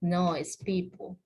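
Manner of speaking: people said with a final p sound; correct pronunciation. Shown as a demonstration. Teacher correcting students' persons to people. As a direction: say people as pipo, no s at the end. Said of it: "le ponen persons".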